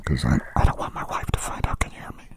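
urgent hushed whisper; frantic whisper. Pretend. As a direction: whisper it so the wife can't hear. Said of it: "but I have to whisper".

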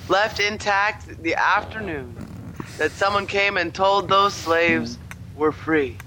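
measured, sing-song mock recital with solemn pauses; bad poet voice. Reading the slave poem to a friend, bad poet voice. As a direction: declaim it line by line like a bad poet. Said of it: "read it in a bad poet voice".

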